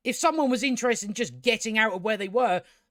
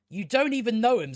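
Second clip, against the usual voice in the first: exasperated repeat; 2 semitones higher than usual. Real, not acted. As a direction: push the line out, fed up. Scolding the character, repeated.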